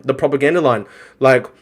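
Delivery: ordinary delivery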